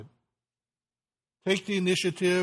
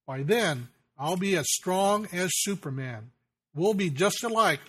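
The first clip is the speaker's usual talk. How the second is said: put-on little boy's voice; 2 semitones higher than usual. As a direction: voice the proud little son looking up to dad. Son's words, final chorus.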